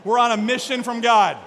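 loud Chicago accent; punchy Blues Brothers-style Chicago accent. Shown as a demonstration. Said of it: "in your best Chicago accent".

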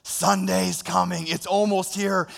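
building excitement. Shown as a demonstration. Pastor turns Sunday into a hopeful announcement, brightening. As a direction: lift it with growing anticipation. Shift to the eager view.

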